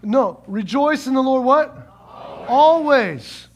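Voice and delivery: firm correction, loud on Always; corrected emphatic. Real, not acted. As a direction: call out the right word. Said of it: "we don't have it up there".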